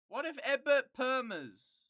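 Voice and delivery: high, slow outraged question; high-pitched slow disbelief; incredulous. Real, not acted. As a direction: stretch it out in disbelief. Ranting, pitch jumps high.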